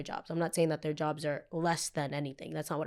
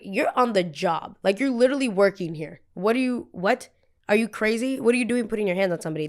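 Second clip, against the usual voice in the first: outraged retort; 3 semitones higher, 5 dB louder than usual. Retold or imitated. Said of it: "And I was like".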